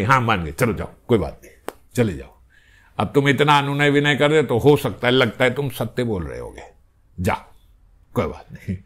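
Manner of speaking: low, softening consent; relenting sakhi. Acted.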